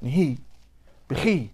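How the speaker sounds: soft, restrained first cries; holding back before the outburst; little cry. Retold or imitated. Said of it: "she lets loose a little cry".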